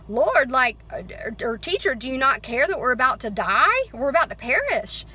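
loud, urgent plea, voice jumping up at the start; panicked disciples. Retold or imitated. Disciples begging the sleeping Jesus, loud and frantic. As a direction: cry out to the teacher as the boat sinks.

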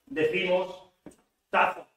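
"taza" with a flat Spanish a; pronunciación española. Shown as a demonstration. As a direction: say "taza" the Spanish way, one open a. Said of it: "queremos decir gorra". ("taza" con la a española)

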